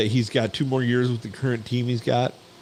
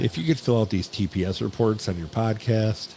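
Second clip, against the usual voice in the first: Bill Lumbergh. Retold or imitated. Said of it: "Bill Lumbergh style".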